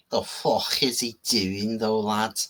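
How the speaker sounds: slow, lightly put-on Northern English accent; a rough amateur Northern English lad accent; butchered Northern English accent. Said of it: "butchering, um, accents".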